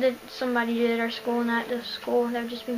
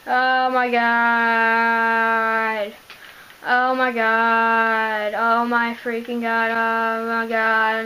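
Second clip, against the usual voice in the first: long drawn-out ecstatic screams; shrieking jackpot winner; 7 dB louder, much slower than usual. Real, not acted. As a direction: scream with disbelieving joy. Huge in-game find, screaming.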